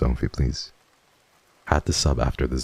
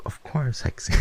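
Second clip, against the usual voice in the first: sweet imitation; 10 semitones higher than usual. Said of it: "And Mello was like".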